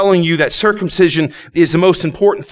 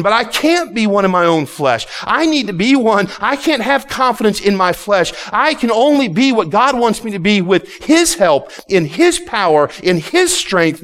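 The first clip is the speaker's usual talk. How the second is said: emphatic pulpit delivery, higher pitched; forceful preaching; 4 semitones higher than usual. Real, not acted. Preacher confesses he can't do it alone, forceful preaching. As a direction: preach it hard, driving each phrase.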